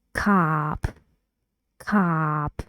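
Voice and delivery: cop with a short open vowel; careful British model of cop; model word cop. Shown as a demonstration. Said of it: "Now about the new sound".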